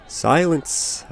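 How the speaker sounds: sharp high roar. A narrator's reading. Isaac silencing the furious villagers, roaring. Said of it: "Isaac roared".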